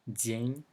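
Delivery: "День" with palatalized D, a y sound in it; soft D. Shown as a demonstration. Teacher contrasts it with the hard D, soft consonant. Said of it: "it's a soft D".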